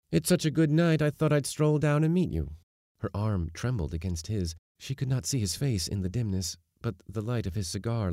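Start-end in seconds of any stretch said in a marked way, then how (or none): 0.1-2.6 high, loud, offhand cheer; breezy father. A narrator's reading. Father casually explaining to daughter why he came, breezy. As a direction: make light of it, pitched up.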